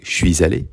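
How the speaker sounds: "Je suis allé" with suis linked into allé by a z sound; liaison. Shown as a demonstration. Teacher showing pupils liaison, "Je suis allé" linked with a z. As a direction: run "suis allé" together, sounding the final s of suis as z. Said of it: "the L is the liaison between words".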